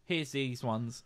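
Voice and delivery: slow showing. Retold or imitated. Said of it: "being like".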